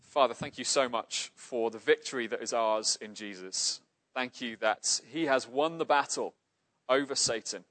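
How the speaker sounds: steady, earnest prayer voice. Acted. Pastor closing the sermon in earnest prayer. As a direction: pray to the Father on behalf of the congregation.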